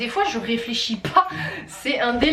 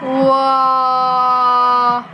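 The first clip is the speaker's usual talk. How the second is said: long loud wow of delight; excited shout; 5 dB louder than usual. Real, not acted. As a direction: cheer it out. Shout at result.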